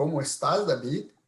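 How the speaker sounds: ordinary talk, nothing marked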